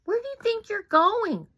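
high, loud taunting bully. Acted. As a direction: sneer it like a bully. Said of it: "asked Brutus".

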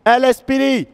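shouting into a resonant hall; echoing. Real, not acted. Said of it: "Ça résonne là-dedans".

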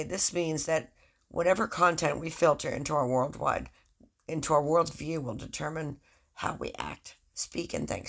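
sleepy, just woke up; groggy, half-awake reading. Real, not acted. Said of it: "so I'm sorry if I sound groggy".

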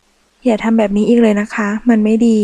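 plain reading voice

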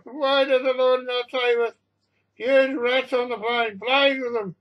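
high, loud, drawn-out wailing; hysterical panic. A narrator's reading. Passengers pleading to heaven over a monster, hysterical wailing. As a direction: wail and pray as if doomed.

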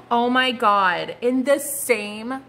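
slow, drawn-out amazement; stunned. Real, not acted. Tarot reader amazed the same card came up, slow. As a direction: let the shock stretch the words.

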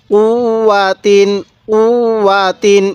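"উ, ওয়া তিন" recited with a held double w; measured teacher's recitation of "উ, ওয়া তিন"; doubled consonant. Shown as a demonstration. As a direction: lean on the w joining "উ" to "ওয়া", then "তিন". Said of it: "এরকমভাবে শিখব".

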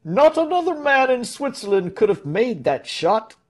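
high-pitched, carrying roar; roaring praise. A narrator's reading. Smith boasting of Tell's shot, roaring. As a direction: call it out high to the whole crowd. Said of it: "roared Ulrich the smith".

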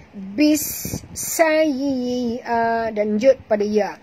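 slow recited line, stressed sin; tajwid recitation demo. Shown as a demonstration. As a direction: recite it slowly as a model. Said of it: "Dekat sin kita jud". (bacaan contoh tajwid perlahan)

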